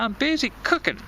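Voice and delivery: mock yell. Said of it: "She's yelling at him from inside the kitchen".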